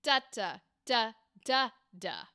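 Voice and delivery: "da, da, da, da, da" tapped out with falling pitch; rhythm demo. Shown as a demonstration. Coach echoing a student's take, rhythm demo on "da". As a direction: sound out the line's rhythm on "da, da, da, da, da". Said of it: "This one is".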